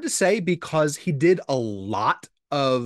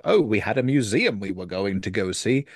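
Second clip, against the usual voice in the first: lower, lightly fussy English gent; a hint of a prim Englishman; Mister Bean voice; 6 semitones lower than usual. Mister French turning down the movie set, a touch of Mister Bean. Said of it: "I don't know why I sound like Mister Bean".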